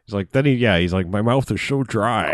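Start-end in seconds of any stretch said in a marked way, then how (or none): 1.1-2.3 slow, lightly put-on dragon voice; lightly mimicked actor impression; Sean Connery. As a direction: draw it out like a hint of the film-star dragon. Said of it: "Sean Connery spits on him".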